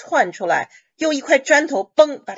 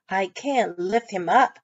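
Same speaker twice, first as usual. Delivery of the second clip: slow model reading; slower than usual. Shown as a demonstration. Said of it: "Lift up就是把他给扶起来".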